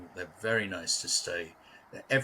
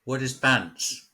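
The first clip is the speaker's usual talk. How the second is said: puzzled; 6 semitones higher, 5 dB louder, slower than usual. Real, not acted. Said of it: "No, you've lost me".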